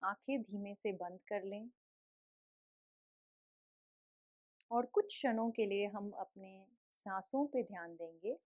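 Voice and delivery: gentle, softened guiding voice with long pauses; guided meditation. Real, not acted. Yoga teacher settles the class into breath awareness, calm meditative guiding.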